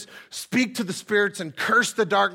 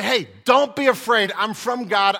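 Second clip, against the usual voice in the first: angel reassurance; 2 semitones higher, 6 dB louder than usual. Retold or imitated. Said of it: "And the angels say".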